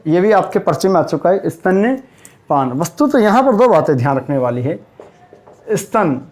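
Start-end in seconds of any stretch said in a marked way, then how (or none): 1.5-2.7 स्तन्यपान said slowly with the य clearly heard; correct form, careful. Shown as a demonstration. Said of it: "शुद्ध शब्द क्या होता है". (सही शब्द स्तन्यपान, य पर ज़ोर)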